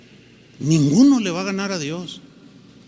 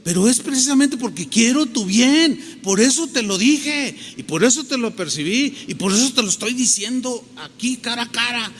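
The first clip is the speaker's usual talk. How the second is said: higher-pitched, earnest pleading; insistent; 4 semitones higher than usual. Acted. Friend explaining he wants your good, insistent. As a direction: press the point home phrase by phrase. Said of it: "Y el otro te insiste".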